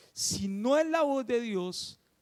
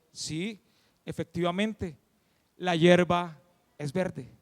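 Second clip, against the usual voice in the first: lower, deliberate royal reply; slightly lowered voice, conceding in measured words; measured lion king; 6 semitones lower than usual. Acted. Lion king confirming truth to the tiger, measured.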